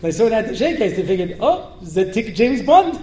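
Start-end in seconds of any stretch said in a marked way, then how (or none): 1.4-3.0 put-on amused Israeli accent, slowed down; playful Israeli accent, breaking into laughter; mock Hebrew accent. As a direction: act an Israeli's slow realization, in accent. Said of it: "you say that in Hebrew".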